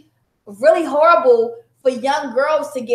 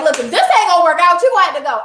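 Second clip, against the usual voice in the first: louder, higher, firm send-off; firm breakup; 5 semitones higher, 5 dB louder, faster than usual. Retold or imitated. Wife ordering husband out, loud and firm. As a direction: tell him to go with force. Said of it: "you would think that you'd be like".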